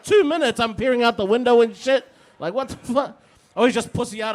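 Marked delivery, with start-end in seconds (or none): 0.0-3.2 mock Karen dictator. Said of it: "biggest Karen dictator ever".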